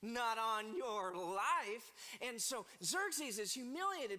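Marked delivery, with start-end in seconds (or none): 0.0-1.9 firm refusal. Acted. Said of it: "what she says".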